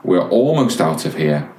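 lightly voiced calm dad, a little low. Dad steadying himself as the boy screams, in a low, restrained voice. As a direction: keep it low and controlled, imitating a patient dad. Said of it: "In a very low voice".

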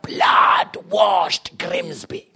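mock German preacher accent. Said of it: "why did you have a slight German accent".

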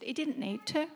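softly retold calm reply; really calm. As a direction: answer quietly, as God calmly setting it straight. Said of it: "said to me really calmly".

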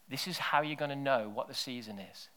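unvoiced hush to the congregation; whisper. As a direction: breathe it like a secret.

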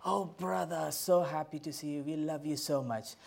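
imitating effusive churchgoers; mock-affectionate gush, lightly put on; gushing greeting. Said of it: "people will come and say".

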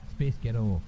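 muddled put-on accent on "Space Ghetto"; botched accent demo. Shown as a demonstration. Trying the trick on an audience, in the wrong accent. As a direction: attempt an accent and miss it. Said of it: "that's the wrong accent".

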